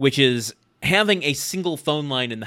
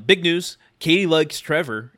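lightly acted big-news announcement, higher pitch; gossipy announcement; 4 semitones higher, 3 dB louder than usual. Husband turns to his wife with gossip, announcing it. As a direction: deliver it as juicy gossip, stated firmly. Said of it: "he turns to Jill and says".

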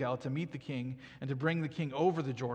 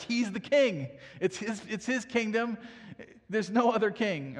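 emphatic preaching; 6 semitones higher, 4 dB louder than usual. Real, not acted. Preacher driving home the point.

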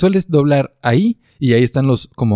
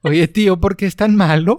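mock Spain Spanish; 7 semitones higher than usual. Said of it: "Uy, no, no puedo".

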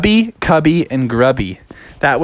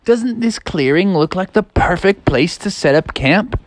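higher, excited youngster; eager Froggy; 6 semitones higher than usual. Acted. Froggy shows Dad a camp spot, eager. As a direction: call out keenly to your father. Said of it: "and he said".

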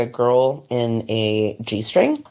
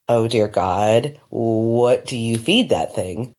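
mock awe; 3 semitones lower, much slower than usual. Acted awe at an enormous size.

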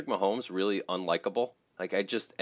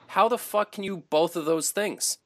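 high-pitched, incredulous protest; worked-up, indignant high voice; exasperated rant; 8 semitones higher than usual. Real, not acted. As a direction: argue it in exasperated disbelief. Ranting about the player's hypocrisy.

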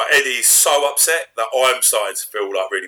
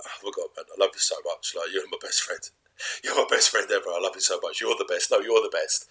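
put-on drunk mate gushing; 4 semitones lower, 7 dB quieter than usual. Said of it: "you get absolutely hammered".

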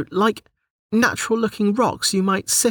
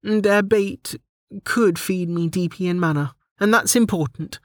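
high-pitched heroine, mildly stern; 8 semitones higher than usual. A narrator's reading. Delta lectures her fish, mildly stern high voice. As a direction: lay down the facts with mild sternness, high voice. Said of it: "Delta said with a stern voice".

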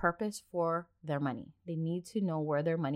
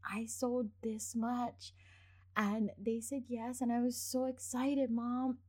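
put-on slow, higher excited kid report; 1 excited child voice; 5 semitones higher, slower than usual. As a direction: play the son bursting with news. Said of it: "he's like".

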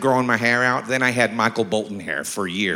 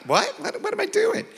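squeaky baffled what; mock panic, pitched up high; retold confusion; 4 dB quieter than usual. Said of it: "I'm like".

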